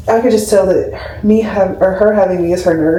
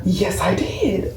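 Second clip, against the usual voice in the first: awed quiet; 6 dB quieter, much slower than usual. Retold or imitated. After gasp, awed.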